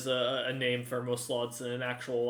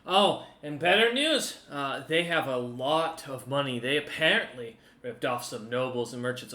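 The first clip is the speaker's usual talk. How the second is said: chipper NPC; 3 dB louder than usual. Acted. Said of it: "Crump looks up at you and goes".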